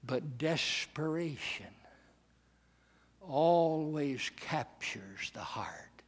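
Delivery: slow, soft whispered truth. Acted. Preacher whispering to the congregation, soft and slow. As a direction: hush it to a secret. Hushed climax of sermon.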